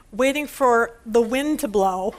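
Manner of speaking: slow, chuckling through the punchline; slow amused delivery; laughing punchline. Retold or imitated. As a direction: let a laugh slip into the words.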